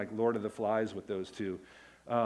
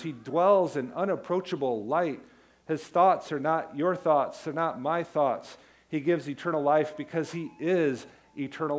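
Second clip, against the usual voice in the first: rising, louder proclaiming of Jesus as King; full-force preaching; 2 semitones higher, 3 dB louder than usual. Acted. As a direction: preach it out to the congregation. Preaching about Jesus' majesty.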